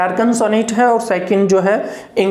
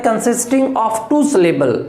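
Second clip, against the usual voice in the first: slow dictation; much slower than usual. Shown as a demonstration. Teacher repeating the definition to students, slow. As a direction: repeat it slowly so it sticks. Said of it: "teacher dictating trochee definition".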